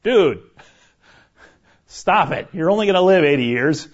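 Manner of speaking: loud, blunt mock scolding; wife's verbal slap. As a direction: imitate a wife's no-nonsense telling-off. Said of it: "she gave me that verbal slap".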